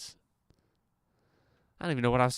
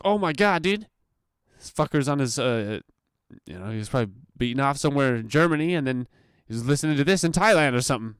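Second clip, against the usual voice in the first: excited retelling; 4 semitones higher, 5 dB louder than usual. Retold or imitated. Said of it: "I'll be like".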